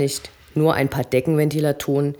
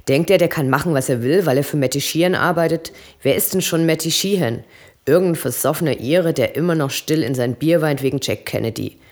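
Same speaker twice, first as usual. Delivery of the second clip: angry rant. Acted. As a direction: spit it out, fed up and furious. Obob schimpft über Eddie. (wütend, lauter Schimpfen)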